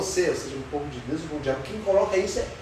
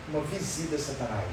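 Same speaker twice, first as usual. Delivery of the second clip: softer, lower echo of the phrase; quiet repeat; 6 semitones lower, 9 dB quieter than usual. Shown as a demonstration. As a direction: let it sink in quietly. (repetição baixa e suave)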